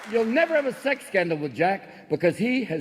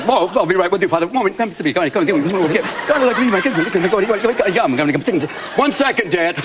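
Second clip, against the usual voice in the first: loud excited voice; 6 dB louder, faster than usual. Retold or imitated. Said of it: "And he's like".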